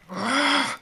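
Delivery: short, high, loud cry of anger; angry scream. Acted. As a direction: let out a burst of frustration. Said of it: "just screams out in anger".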